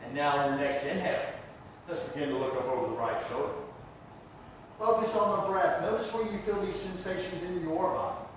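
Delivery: unhurried breathing cues with pauses; calm yoga teacher's guiding voice; guided yoga instruction. Real, not acted. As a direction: lead the class gently into the breath. Leads yoga class.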